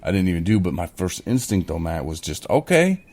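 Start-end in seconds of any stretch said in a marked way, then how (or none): 2.5-3.0 much higher and louder, hammed-up challenge; mock war cry. First instinct toward the Facebook attacker, mock belligerent shout. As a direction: puff up and dare them to fight. Imagined hostile comeback to attacker.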